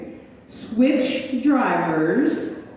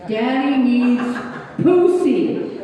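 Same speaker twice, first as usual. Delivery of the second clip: grandson's demand growing louder and higher; building mock yell; 3 semitones higher, 4 dB louder, much slower than usual. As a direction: insist harder each time like a frustrated child. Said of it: "he kept saying".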